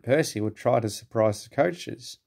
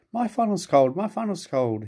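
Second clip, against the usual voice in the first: whiny Percy; 6 semitones higher than usual. A narrator's reading. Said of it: "he would puff".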